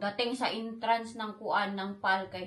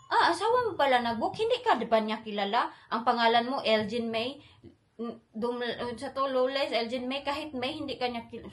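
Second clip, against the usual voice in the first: nosy staff; 4 dB louder than usual. Retold or imitated. Nosy staff voiced loudly.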